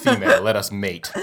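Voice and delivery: robotic voice, laughing. Pretend. Mock Borg mating proposal.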